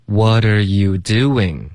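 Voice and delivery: measured, stretched syllables; slow repetition. Shown as a demonstration. Teacher leading practice, slow and clear. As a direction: say it at half speed. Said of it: "我们再说几遍".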